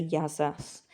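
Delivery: Yazas said as the Greek greeting. Shown as a demonstration. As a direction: model Yazas. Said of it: "if I met a whole class".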